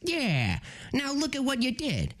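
lightly attempted cartoon wise guy; a loose stab at a cartoon rabbit voice; half-landed cartoon impression; Bugs Bunny. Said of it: "I can't do Bugs Bunny".

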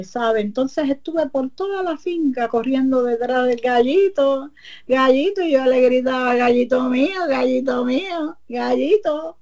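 a hint of a sly neighbour; witch's voice. La comay cuenta su excusa. (la bruja comay finge preocupación, voz más aguda)

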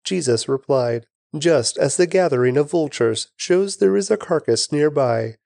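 measured, deliberate reading with rounded-off phrases; scripture reading. Acted. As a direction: read the verses solemnly, phrase by phrase. Reads the Gospel chapter aloud.

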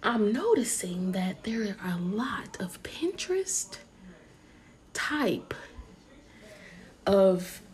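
slow mock-author reading with long pauses; B Simone book voice. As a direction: set each word down separately, deliberately. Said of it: "B Simone book".

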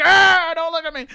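high, loud wail of shame; hammed-up monster shriek; mock anguished monster. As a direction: cry out like a cornered monster. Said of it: "I just feel like a monster".

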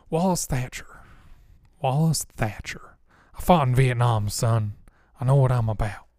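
put-on airy Southern old-timer with a little grit; lightly voiced breathy Southern veteran, measured; Wallace Thatcher. Vietnam veteran introducing himself, airy Southern voice. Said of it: "airy kind of Southern, little bit of grit".

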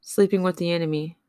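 reads her own poem with steady, heartfelt weight; spoken-word poem, bitter and hurt; poem reading. Acted. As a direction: lay out each line like a confession.

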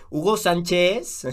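slow, drawn-out name call; mock posh announcer. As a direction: announce it like a rich kid. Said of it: "va a ser como Club de Cuervos".

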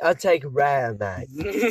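lightly put-on Australian; Australian accent. Joining friends' pretend steak order, light Australian accent. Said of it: "talk in an Australian accent".

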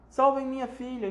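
high, desperate plea; pleading. Acted. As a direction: beg them to save her. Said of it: "implorou a senhora Chataclete".

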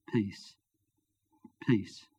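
last words, barely audible; fading whisper. Acted. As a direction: let it fade to almost nothing. Dying man's last words.

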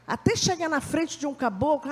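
usual speaking voice

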